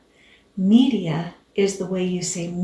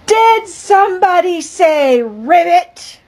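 surprised; 9 semitones higher, 8 dB louder than usual. Acted. Narrator's surprised question.

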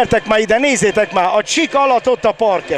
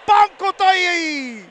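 excited hungarian sports commentary; 9 semitones higher, slower than usual. Real, not acted. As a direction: rave over the beautiful move. Thrilling attack.

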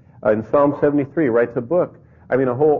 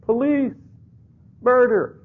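mock scream for help; 13 semitones higher, slower than usual. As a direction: cry out "Help" in a high mock panic. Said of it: "that's what he's just screaming out".

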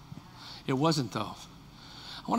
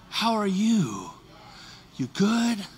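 tender; much slower than usual. Pretend. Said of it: "Let me give you my voice".

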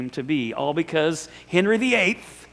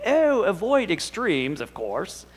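mock British accent, drawn out then dropping off; badly faked British accent on a slow "oh"; attempted British accent; 3 semitones higher, slower than usual. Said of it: "I can't do an, a British accent".

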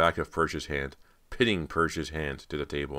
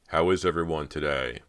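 cheery call; 5 dB louder than usual. Acted. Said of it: "Bo called cheerily".

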